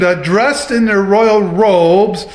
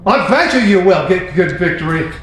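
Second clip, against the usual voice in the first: mock sarcastic. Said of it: "he's just saying it sarcastically".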